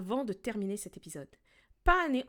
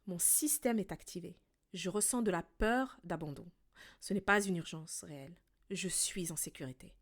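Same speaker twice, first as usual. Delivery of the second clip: calm self-talk demo; 4 semitones lower, 3 dB quieter than usual. Shown as a demonstration. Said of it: "dis à voix haute ou dans ta tête une phrase comme celle-ci".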